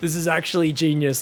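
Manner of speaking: normal talking voice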